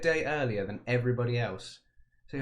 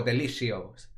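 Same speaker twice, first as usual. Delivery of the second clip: a light mock Italian accent on delicioso. Manager praising a perfectly weighted pass, mock Italian accent. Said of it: "not sure what the accent was".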